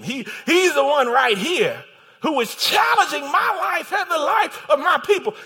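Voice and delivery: loud, high impassioned accusation; dramatic queen denouncing her enemy; accusing Esther. Acted. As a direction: point out the culprit at full preaching force. Esther accuses Haman before the king.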